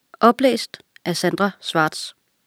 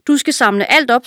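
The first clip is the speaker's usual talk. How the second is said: furious king; 6 semitones higher, 4 dB louder than usual. A narrator's reading. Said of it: "Kongen blev rasende".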